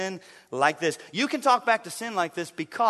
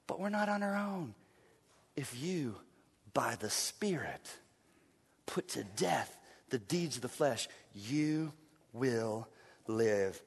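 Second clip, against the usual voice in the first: hushed; 8 semitones lower, 13 dB quieter than usual. Real, not acted. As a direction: bring it down to a near whisper. Hushed repeat of verse.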